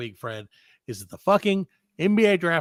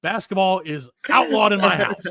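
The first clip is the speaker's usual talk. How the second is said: retold yell; 4 semitones higher, 5 dB louder than usual. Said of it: "and I yelled".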